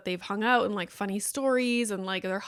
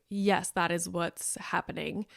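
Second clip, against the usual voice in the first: deadpan agreement; 2 semitones lower, 4 dB quieter than usual. Retold or imitated. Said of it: "And I'm like".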